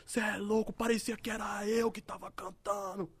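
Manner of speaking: high, drawn-out imitated wail; hammed-up tearful whine; mock crying. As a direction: imitate a friend sobbing out the words, stretched and high. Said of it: "foi na minha porta chorando".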